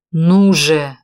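loud, sharp impatient demand; irritated shout. A narrator's reading. Walker presses the hesitant woman, impatient loud shout. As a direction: bark it out, losing patience. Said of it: "раздражённо сказал он".

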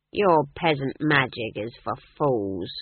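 slow, cold commander voice; a hint of a scornful captain; sneering leader. Leader taunts the witch.

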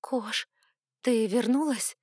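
ordinary delivery, nothing marked

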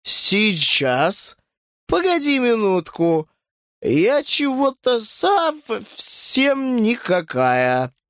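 put-on very slow, slurred drunk curse; drunk slurring. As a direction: drag it out, barely standing. Very drunk woman.

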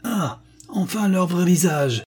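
high, slow bawled triumph; blaring mock triumph. A narrator's reading. Carruthers bawls through his megaphone at the brothers, high and slow. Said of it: "brandit son mégaphone avec ferveur et brailla".

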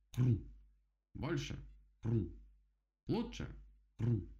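chomp each word like a bite; chomping chant. Acted. Beaver chomps chanting progress.

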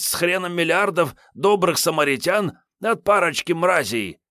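high, heated tramp lecture; ranting stalker Kiryay. Acted. Kiryay justifying the killings to Sergey, high heated rant. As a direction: rant self-righteously.

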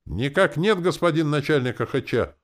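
high, drawn chorus of recruits; mock-dismal soldiers' response; mournful. A narrator's reading. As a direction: answer up high in a doleful military reply. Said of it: "заунывно ответили воины".

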